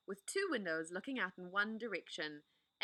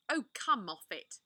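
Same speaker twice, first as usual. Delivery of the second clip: bad-tempered Edmund; 5 dB louder than usual. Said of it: "who was tired and pretending not to be tired, which always made him bad-tempered".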